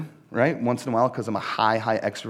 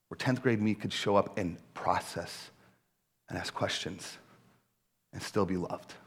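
quiet retold thanks; 4 semitones lower, 7 dB quieter than usual. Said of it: "He said".

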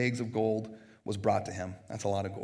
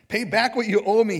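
loud, raised-pitch demand; 8 semitones higher, 9 dB louder than usual. A narrator's reading. Servant confronting a fellow servant over a debt, demanding. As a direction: demand it forcefully, reading aloud. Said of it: "he demanded".

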